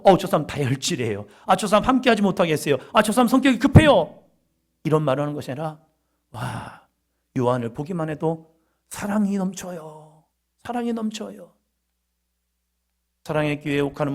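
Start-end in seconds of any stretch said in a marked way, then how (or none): 0.0-4.2 acted grumbling, building louder and higher; agitated complaint. Preacher voicing people put off by hot-tempered John, agitated complaint. 6.3-11.5 soft, hushed wonder; tender admiration. Acted. Preacher voicing people moved by John's love, tender admiration.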